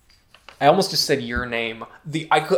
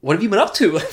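stage fright; 4 semitones lower than usual. Pretend. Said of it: "I'm nervous".

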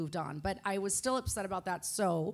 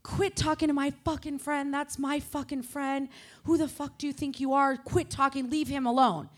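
hammed-up angry outburst, a bit higher and louder; retold angry yelling; 5 semitones higher, 4 dB louder than usual. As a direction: yell at her to back off her friend. Retelling shouting at a rival.

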